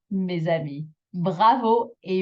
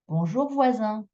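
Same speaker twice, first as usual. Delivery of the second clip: higher bonjour voisin, last syllable held; extra final intonation; 4 semitones higher than usual. Shown as a demonstration. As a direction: stretch the SIN of voisin. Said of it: "intonation on that last bit".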